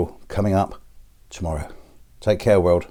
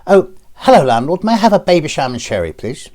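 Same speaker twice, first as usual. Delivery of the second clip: high-pitched, hammed-up mincing greeting; mincing little customer; 5 semitones higher, 3 dB louder than usual. Little pink tarmac greeting the landlord, high and mincing. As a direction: order daintily in a put-on voice. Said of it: "minces up to the bars and goes".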